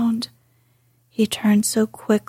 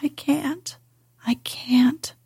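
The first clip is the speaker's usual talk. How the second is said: sobbing; 3 semitones higher than usual. Acted. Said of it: "he gasped and sobbed".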